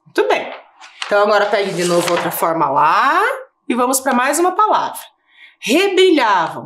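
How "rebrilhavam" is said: 1 slow dictation. Shown as a demonstration. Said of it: "rebrilhava eu posso separar".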